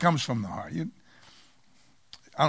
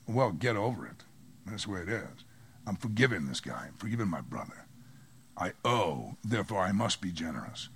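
soft, low firm self-talk; firm inner talk; 7 semitones lower, 8 dB quieter than usual. Pretend. Believer telling their own feelings to get over it, softly. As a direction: quietly tell your feelings to get over it.

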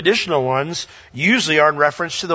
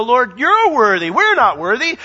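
worshipping saints; 6 semitones higher, 3 dB louder than usual. Retold or imitated. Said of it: "cast our crowns down and go".

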